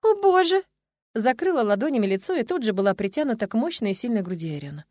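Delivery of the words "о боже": much higher, louder mortified cry; gasping oh God, much higher; embarrassed groan. A narrator's reading. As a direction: overcome with embarrassment. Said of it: "простонала".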